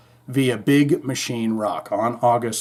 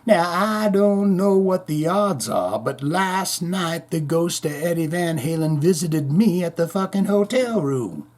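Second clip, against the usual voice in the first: A singer; 3 semitones higher than usual. Acted. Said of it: "Oh, Roth continued".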